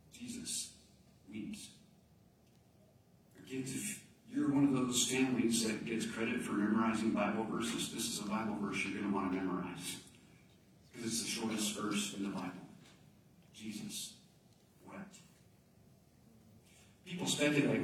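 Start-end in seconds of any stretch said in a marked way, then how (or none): 0.1-1.7 slow, soft reverent words; slow down and hush it. Real, not acted. Pastor telling the church, slow reverent hush. 13.5-15.1 whispered reverent verse; hushed. Real, not acted. Pastor to the kids, a soft whispered verse.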